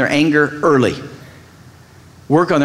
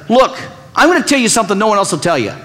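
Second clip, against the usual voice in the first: quick, raised know-it-all push; mock preachy bluntness; 5 semitones higher, faster than usual. Shown as a demonstration. Pastor mocking the blunt truth-teller, fast and pushy. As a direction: rush it like unasked advice. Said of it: "instead of".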